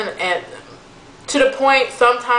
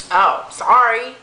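slow, drawn-out mock apology; sorry with attitude; 3 semitones higher, slower than usual. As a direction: imitate her grudging sorry, stretched out. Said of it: "the attitude, like, what's the attitude for".

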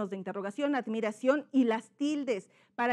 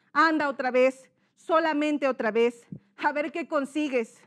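pleading character; 2 semitones higher, 4 dB louder than usual. Shown as a demonstration. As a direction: push him to try, insistently. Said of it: "son dos personajes". (ruego insistente del padre)

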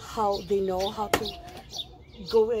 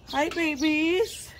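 pet talk; 6 semitones higher, much slower than usual. Real, not acted. Owner greeting her pets, slow high cooing voice. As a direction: coo at them like little babies.

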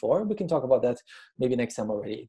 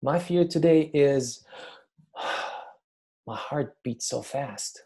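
calm observing; slower than usual. Shown as a demonstration. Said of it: "You distance yourself".

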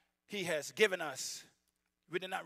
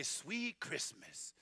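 Luke Cage catchphrase; 4 semitones lower, 8 dB quieter, much slower than usual. Retold or imitated. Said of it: "Luke Cage, you say".

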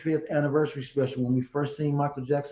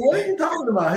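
retold disbelief; 13 semitones higher, much faster than usual. Retells his own shocked reply.

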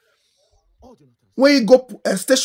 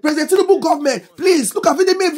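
mock public plea, pitched higher; begging; 4 semitones higher than usual. Everybody begging the government over the children, higher pleading. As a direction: plead lightly on everyone's behalf. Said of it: "Everybody dey beg".

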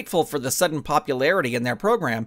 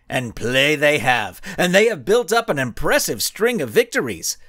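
cocky villain speech. Acted. Blinding Skull addressing reporters with cocky pride. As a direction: savour each word, mock-humble.

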